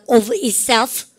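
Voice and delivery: "of itself" drawn out slowly for learners to copy; pronunciation model. Shown as a demonstration. Teacher has class repeat the English phrase, pronunciation model. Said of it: "발음을 갖다".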